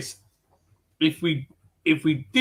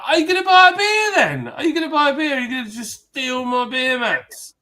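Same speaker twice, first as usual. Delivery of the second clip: high, loud mock challenge; retold telling-off; 11 semitones higher, 5 dB louder than usual. Confronting someone nicking beer mats, loud and mocking. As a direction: call out the beer mat thief. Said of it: "and I'm like".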